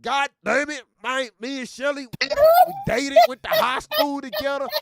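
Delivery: lightly voiced old Southern redneck; a hint of a rowdy country good ol' boy; the speaker's redneck voice. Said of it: "how do you sound just like him".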